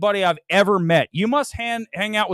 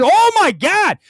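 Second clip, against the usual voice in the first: mock gush; 11 semitones higher, 6 dB louder, slower than usual. Mocking gushing reaction.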